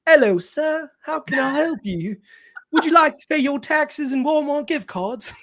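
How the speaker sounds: high, posh-sounding British accent put on; British gentleman accent. Mocking a scam caller to his cohost, in a British accent. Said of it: "they sound like a British gentleman".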